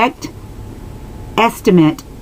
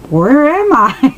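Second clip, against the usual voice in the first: startled; 7 semitones higher, slower than usual. Retold or imitated. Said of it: "I kinda got startled".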